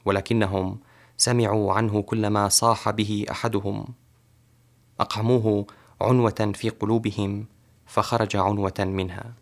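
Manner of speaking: measured, fluent poetry reading; poem recitation. Acted. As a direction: recite your own verse with steady flow. Poet recites his Arabic poem.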